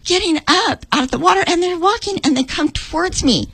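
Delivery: real welling emotion, pitched high; emotional. Real, not acted. Teller moved as people walk towards her, emotional. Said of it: "Sorry, I get really emotional".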